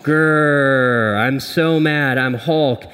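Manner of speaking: slow, growled Hulk voice; mock Hulk growl. Pastor playing Hulk for the congregation, slow mock growl. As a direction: ham up a grumpy Hulk. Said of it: "Hulk is just always mad".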